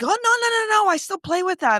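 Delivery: put-on high protesting child voice; whiny kid voice. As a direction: imitate the kids whining. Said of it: "and they're like".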